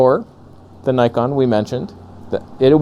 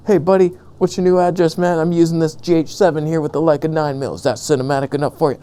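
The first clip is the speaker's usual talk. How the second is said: quick, lightly voiced buddy impression, brisk and cheery; imitating Steinbeck; 5 semitones higher, faster than usual. Friend's text read aloud as a quick, cheery buddy voice. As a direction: rattle it off like an eager friend. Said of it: "He's like".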